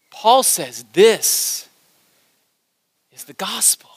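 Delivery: slow, then whispered; hushed climax. Acted. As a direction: drop to a whisper for weight.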